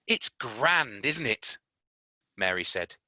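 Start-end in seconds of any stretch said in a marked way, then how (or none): 0.1-1.6 put-on lightly raised girl's voice, pleased; a hint of a cheerful young girl; bright-eyed girl admiring the garden; Mary's voice. Mary voiced in read story.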